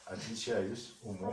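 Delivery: put-on slow, clear prompt for a child; slow dictation. Shown as a demonstration. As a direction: spell it out slowly for a child. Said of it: "а теперь громко". (медленно, по слогам)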